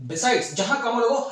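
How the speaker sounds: besides with a light break after it; pause after comma. Shown as a demonstration. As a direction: say besides, then stop briefly at the comma. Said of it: "हल्का सा break लेना है".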